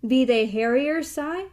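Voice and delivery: a lightly voiced frightened blind woman, cracked and wavering; frightened old woman calling out, lightly cracked. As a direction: cry it out in a thin wavering old voice. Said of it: "she cried out in a cracked, wavering voice".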